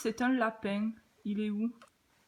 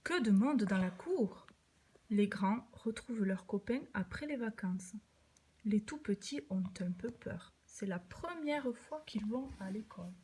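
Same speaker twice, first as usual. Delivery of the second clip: put-on reading to a toddler. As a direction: read gently to a little child, dropping to a hush. Adult reads picture book to child. (lecture douce à un tout-petit)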